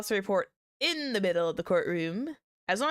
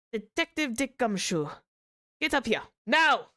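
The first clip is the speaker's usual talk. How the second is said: put-on Franziska's accent; 5 semitones higher than usual. Prosecutor ordering the detective up, in a put-on accent. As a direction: attempt a European accent, building to a sharp command. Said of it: "Trying to do that in Ve-, Francesca's accent".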